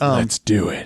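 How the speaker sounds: rough, gruff voice pushed from the throat. Teasing a fellow player about how their line sounded, imitating a gruff 'let's do it'. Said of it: "It sounded like you went".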